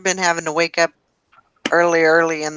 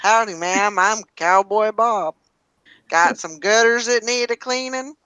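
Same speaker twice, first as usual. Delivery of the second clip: Texas cowboy voice; 3 semitones higher than usual. Acted. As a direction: play a friendly Texas cowboy. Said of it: "That's his, his cowboy voice".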